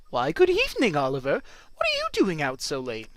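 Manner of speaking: hammed-up evening greeting; passing townsperson. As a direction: greet the kid like a neighbour out at night.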